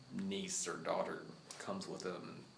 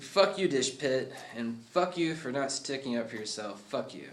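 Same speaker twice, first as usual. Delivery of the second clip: a louder villain's snarl, mildly hammed; 3 semitones higher, 5 dB louder than usual. Villain Crime Face cursing at the kid, a mock snarl. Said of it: "Crime Face is like".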